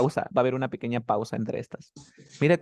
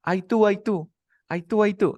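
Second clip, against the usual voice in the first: meaningless sing-song; 7 semitones higher, 4 dB louder than usual. Shown as a demonstration. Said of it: "qué pasa si te digo".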